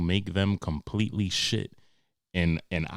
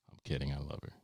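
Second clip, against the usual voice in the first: usual speaking voice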